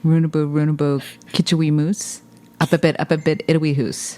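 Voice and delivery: light imitation of a Scottish granny's accent. Dad doing the rhyme in his Scottish grandmother's accent, lightly. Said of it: "in his grandmother's accent".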